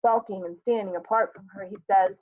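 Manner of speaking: ordinary talk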